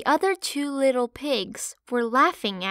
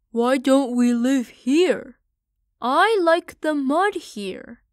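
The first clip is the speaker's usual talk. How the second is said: higher, louder little piglet voice, slowed on the mud; a whiny young pig who loves mud; piglet Parley; 3 semitones higher, 6 dB louder than usual. Acted. Parley pleading with his mother to stay, piggy whine. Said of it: "Parley asked".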